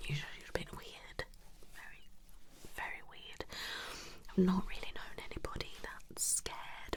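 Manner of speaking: very soft, secretive whisper. Pretend. Therapist calls client weird out of next patient's earshot, whispering. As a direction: drop to a hushed whisper so nobody else hears. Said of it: "I'm whispering".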